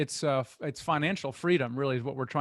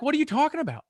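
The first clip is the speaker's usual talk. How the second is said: exasperated worker; 4 semitones higher than usual. Retold or imitated. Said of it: "they're like".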